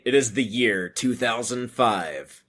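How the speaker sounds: slow, lightly voiced film narrator; movie narrator. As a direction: intone it like a movie's opening narration. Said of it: "has the narrator say".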